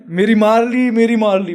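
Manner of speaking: half-mock cry of the hurt uncle; mock yell. Retelling the hit uncle yelling in pain, mild mock yell. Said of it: "uncle ऐसे चिल्ला रहे हैं".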